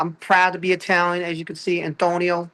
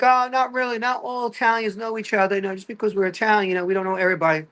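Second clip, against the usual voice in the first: slightly hammed-up, higher-voiced reply; mock protest; 5 semitones higher than usual. Comic answers people assuming Italians all acquainted, mock protest. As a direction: push the pitch up, explaining. Answering the stereotype in acted exchange.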